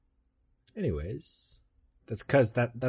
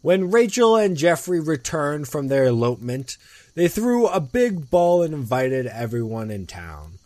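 story narration. A narrator's reading. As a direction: tell a ghost story with big openings, falling away.

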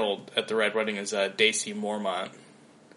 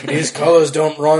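laughing; 5 semitones higher, 10 dB louder than usual. Pretend. Mock bumper sticker slogan.

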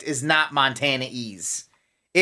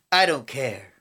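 mock flat mumble; 5 semitones lower, 3 dB quieter than usual. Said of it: "And he's like".

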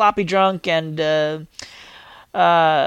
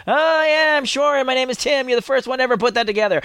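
sarcastic; 6 semitones higher than usual. Retold or imitated. Sarcastic retort to school teasing.

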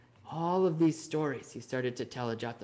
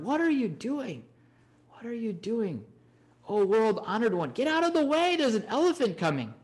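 high, loud frantic warning shout; people shouting; 7 semitones higher, 3 dB louder than usual. Retold or imitated. Market crowd warns the Buddha of the elephant, frantic loud shouting. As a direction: yell at him to get out of the way. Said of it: "People shouted".

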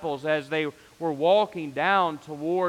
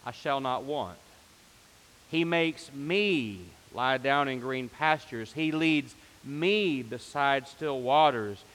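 slow recited psalm; slower than usual. Retold or imitated. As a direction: recite it slowly as if drifting off. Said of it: "I would do it like this".

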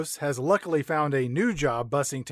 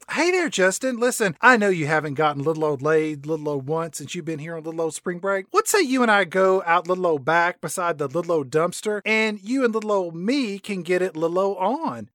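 flirty Alexa; 3 semitones higher than usual. Acted. Alexa propositions Justin at bar.

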